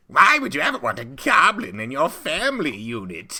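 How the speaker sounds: high, loud hammed-up alarmist poster voice; over-the-top propaganda alarmist; mock fearmonger. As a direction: play a shrill-toned scaremonger ad, overdone. Mock poster voice, goblin panic.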